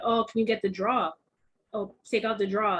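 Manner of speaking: "draw" said as a plain "draw" with no r, the way she says drawer; saying draw for drawer. Retold or imitated. Telling the manager to take out the draw, draw with no r. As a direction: draw with the r dropped, her own Texas way. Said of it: "I kept saying".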